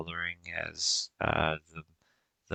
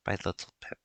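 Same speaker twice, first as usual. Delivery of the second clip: tender mother whisper; 6 dB quieter, much faster than usual. Acted. GM voices mother to son.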